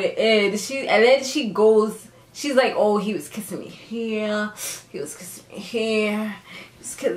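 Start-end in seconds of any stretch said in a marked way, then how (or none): 2.8-7.2 softer, teasing come-on; playfully imitated seduction; mock seductive. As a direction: imitate someone getting all sexual, a little hushed. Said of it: "she was getting all sexual".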